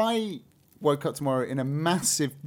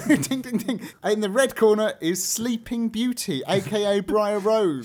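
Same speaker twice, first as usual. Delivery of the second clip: loud, higher ringside announcer voice; boxing ring announcer; 7 semitones higher, 6 dB louder than usual. Pretend. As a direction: call out the fighter in the red corner. Ring introduction, red corner.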